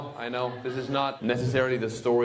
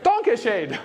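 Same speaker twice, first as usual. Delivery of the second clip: higher, over-careful learner German; wife's careful danke schön; 10 semitones higher than usual. Retold or imitated. Wife repeating her thanks to mom in higher learner German. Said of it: "My wife was like".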